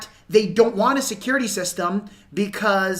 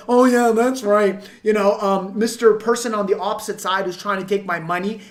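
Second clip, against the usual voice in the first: sarcastic customer. Retold or imitated. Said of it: "The customer's gonna go".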